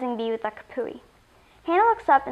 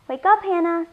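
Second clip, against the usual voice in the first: higher, louder wake-up call; 7 semitones higher, 5 dB louder than usual. Acted. Mom at bedroom door wakes daughter, calling out.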